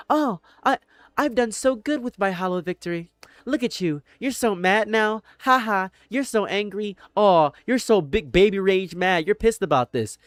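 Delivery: high, taunting sing-song gloat; mocking gloating troll. Taunting a mad stranger online, high gloating mockery. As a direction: sneer at the angry victim in a high mock voice. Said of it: "They say".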